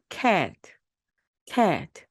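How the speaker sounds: cat breathed out unvoiced; whispered cat. Shown as a demonstration. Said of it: "이것이 모이면은".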